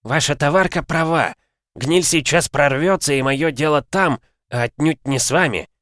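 lightly voiced calm old stranger; cool, unhurried old man. A narrator's reading. (спокойный голос старика)

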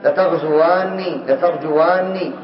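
slow, deliberate spelling-out; slow demo reading. Shown as a demonstration. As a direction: say each form slowly and clearly. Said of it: "فالآن". (نطق بطيء واضح)

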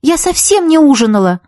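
high, hurt protest; Ия protests, hurt, to the girl who mocked her; offended. A narrator's reading. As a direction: sound insulted by the remark. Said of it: "оскорблённо сказала Ия".

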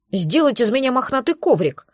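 mild grumbling mumble; a touch of sulky muttering. Acted. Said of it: "продолжал недовольно бубнить он".

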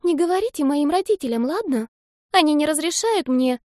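put-on high child's voice begging; a kid afraid of her parents; pleading little girl. A narrator's reading. Girl begs secrecy.

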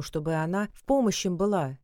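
usual speaking voice

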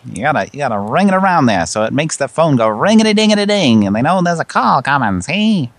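fast, lightly put-on old-time voice; 1930s voice. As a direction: patter like a 1930s film character. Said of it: "I'm talking in a nineteen thirties voice".

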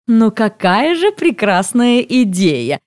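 slow gushing praise, lightly voiced; a hint of an over-sweet saleswoman. A narrator's reading. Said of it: "добавляет она".

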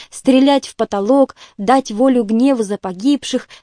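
plain reading voice

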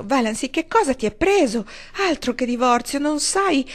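a frantic husband pouring it out; agitated outburst. Acted. Barney bursts out to Valency. (sfogo agitato, più acuto e forte)

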